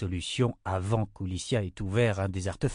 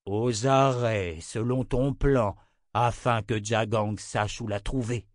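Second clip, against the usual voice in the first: put-on old wizard; slower than usual.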